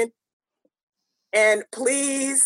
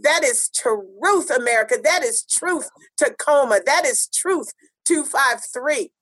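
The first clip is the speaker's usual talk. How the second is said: spoken word poem; 2 semitones higher than usual. Acted. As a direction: intone it like a protest poem over music. Spoken-word opening over music.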